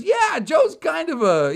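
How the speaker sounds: high, loud, stretched gushing; retold excitement. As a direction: burst out high and loud, imitating her. Retold excited woman on phone.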